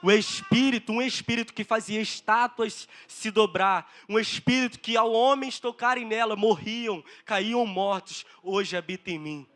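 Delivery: loud, emphatic preaching; forceful pulpit delivery; impassioned preaching. Real, not acted. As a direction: drive each phrase at the congregation.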